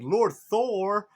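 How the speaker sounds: high, loud shout of acclaim; shouting crows. A narrator's reading. Crows hail Thor as he arrives, shouting. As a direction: cry it out high like heralding crows. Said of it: "start shouting".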